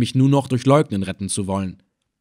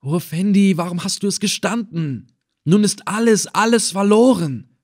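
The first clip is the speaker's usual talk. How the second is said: urgent murmured aside; 8 semitones higher than usual. A narrator's reading. Helper murmurs to captured friend that all is lost, urgent aside. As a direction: lament it urgently to your ally. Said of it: "mir zuzuraunen".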